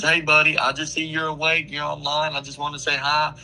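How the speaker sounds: high, chirpy fake-friendly greeting; host mocking the early-morning fan message; mock eager creep. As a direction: imitate the fan's too-cheerful hello. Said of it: "he messages me and says".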